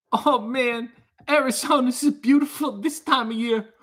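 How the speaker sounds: high-pitched, put-on dopey sitcom dudes; Barbarino and Joey. Improvising a requested Arizona driving scene as Barbarino and Joey, hammed-up high voices. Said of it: "John Travolta driving through Arizona with Joey from Blossom".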